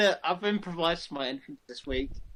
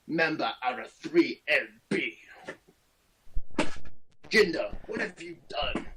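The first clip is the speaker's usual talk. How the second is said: badly faked Indian accent, measured pauses; attempted Indian accent. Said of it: "That's not even an Indian accent".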